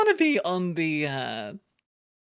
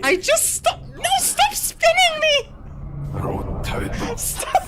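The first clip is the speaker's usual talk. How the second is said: dizzy; 4 dB louder, slower than usual. Real, not acted. Spun again in game.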